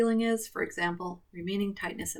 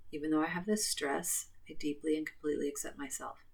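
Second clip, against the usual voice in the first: guided tapping script; 4 dB quieter than usual. Acted. Sample affirmation for viewers.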